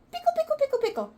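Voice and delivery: high lilting pickle chant; sing-song demo. Shown as a demonstration.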